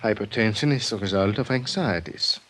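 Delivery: put-on light Viennese accent, quick and polite; a gently Viennese psychiatrist, brisk and courteous. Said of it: "and charmingly Viennese".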